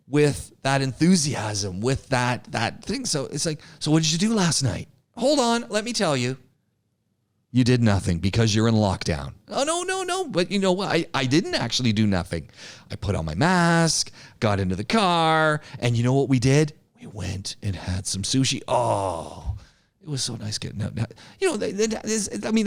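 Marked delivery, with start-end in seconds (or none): 3.8-9.3 playful back-and-forth between two friends; exaggerated chat demo. Shown as a demonstration. Teacher acting out a chat with a friend, lively. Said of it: "that's a little over-exaggeration". 9.5-22.7 exaggerated chatty storytelling. Shown as a demonstration. Teacher hamming up weekend news to students, gushing. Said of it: "that's a little over-exaggeration".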